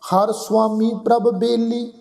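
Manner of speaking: measured verse reading, paused between phrases; scripture recitation. Shown as a demonstration. Teacher reading a shabad to the congregation, measured recitation. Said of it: "ਅਸੀਂ ਸ਼ਬਦ ਪੜ੍ਹਦੇ ਆ".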